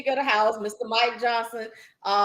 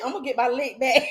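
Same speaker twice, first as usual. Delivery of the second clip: laughing; 3 semitones higher than usual. Real, not acted. Laughing while repeating quote.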